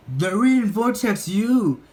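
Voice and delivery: high, loud cry of dismay; shocked he's been beaten; Jimmy finding kids reading the rival zine, dismayed cry. A narrator's reading. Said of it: "he cried".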